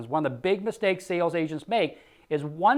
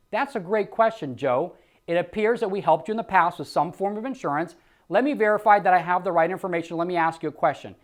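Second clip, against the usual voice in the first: smooth, friendly rep answer; calm phone-agent demo; sales script demo. Shown as a demonstration. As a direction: deflect gently and move on. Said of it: "let me start that again".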